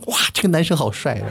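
lightly voiced girl gushing, with a laugh; a hint of a swooning schoolgirl. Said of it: "女生，". (带笑轻声模仿女生夸赞)

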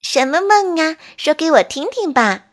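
bright, eager questioning; curious mole. Acted. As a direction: ask like a curious little mole. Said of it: "班吉好奇地问".

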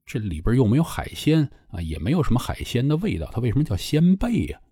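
puzzled questioning, climbing in pitch at the end; mildly baffled retelling; retold puzzlement. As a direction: wonder aloud why it's called that. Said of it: "挺迷惑".

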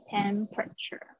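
"temperature" with the R sounded before "-ture"; correct pronunciation. Shown as a demonstration. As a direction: model "temperature" carefully, keeping the R. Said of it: "才会是正确的哟". (正确示范"temperature"，带出R音)

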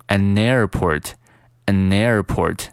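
"an airport" with the n carried into airport; an airport linked. Shown as a demonstration. Teacher linking words for students, a slow "an airport". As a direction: slide the n of an straight onto "airport". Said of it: "An和airport进行连读".

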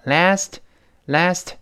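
LAST with unreleased final t; T dropped in LAST. Shown as a demonstration. Teacher shows lost plosion, LAST without its t. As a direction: stop LAST before the t bursts. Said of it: "那个t没有了".

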